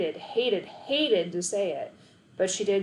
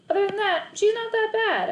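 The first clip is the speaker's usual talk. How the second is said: grudging admission; 12 semitones higher, 4 dB louder than usual. A narrator's reading. Boy grudgingly praises sister.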